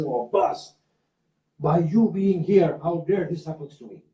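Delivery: mild imitation of an indignant shout; retold shout. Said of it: "they shout at that shrine and say".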